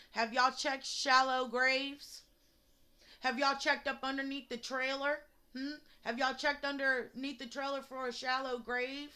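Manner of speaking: indignant, accusing questions; angry challenge. Real, not acted. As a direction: demand answers from the police.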